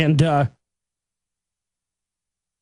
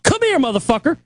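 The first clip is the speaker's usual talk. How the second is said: challenging shout; 6 semitones higher than usual. Retold or imitated. Calling worker out to fight.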